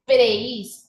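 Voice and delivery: "Preis" firmly in one beat, E gliding into I; joined as one syllable. Shown as a demonstration. Teacher repeating the correct syllable, "Preis" said as one unit. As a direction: keep "Preis" whole, no break before the I. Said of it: "Esa E no se puede separar de la I".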